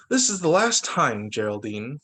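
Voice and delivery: mild scolding. Acted. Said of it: "Mama scolded".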